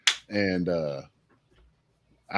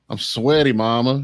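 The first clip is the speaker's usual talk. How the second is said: put-on Southern Alabama accent; 3 semitones higher, 3 dB louder than usual. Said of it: "got this super, like, Southern Alabama accent".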